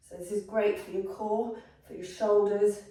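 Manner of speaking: effort grunt. Real, not acted. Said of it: "sorry about all my grunting".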